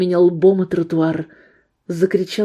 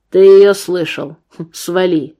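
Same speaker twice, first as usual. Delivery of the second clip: menacing gunman; 5 dB louder than usual. Acted. Gunman ordering the old man away, menacing. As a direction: push him off with threat.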